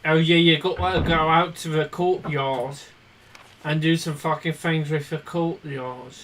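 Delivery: playing British for a moment; British accent. British accent slipped in while talking about the courtyard. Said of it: "What possessed you to speak in British?".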